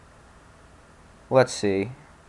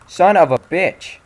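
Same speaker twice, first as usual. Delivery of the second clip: slow, drawn out, much higher and louder, each word stretched; furious curse; 8 semitones higher, 7 dB louder, slower than usual. Real, not acted. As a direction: explode on the second try. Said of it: "repeated louder right after".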